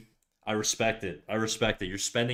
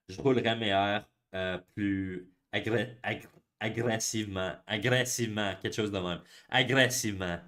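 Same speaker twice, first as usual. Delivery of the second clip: New Brunswick rolled R. Shown as a demonstration. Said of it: "you would roll your R's a little bit more".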